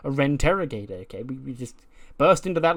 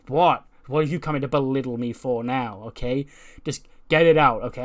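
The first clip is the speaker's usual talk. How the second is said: mock outburst; 6 dB louder than usual. Shotzi crying and lashing out.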